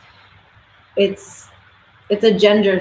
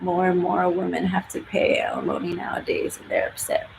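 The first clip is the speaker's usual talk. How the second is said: soft, voiceless sly aside; hushed, voiceless aside to the viewers; whisper; 7 dB quieter than usual. Real, not acted. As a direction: whisper it like gossip. Sly aside about alimony news.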